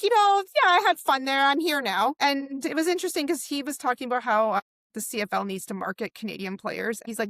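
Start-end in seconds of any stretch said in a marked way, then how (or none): 0.0-2.1 high, loud, laughing brush-off; breezy retold quote. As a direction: toss it off lightly, amused. Quoting Rourke, laughing.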